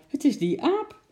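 indignant lady. Acted. Lady blaming the monkey.

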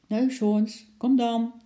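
high, coaxing call; gentle calling. A narrator's reading. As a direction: lightly call an animal over. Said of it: "riep Lotje zacht". (zachtjes lokkend roepen)

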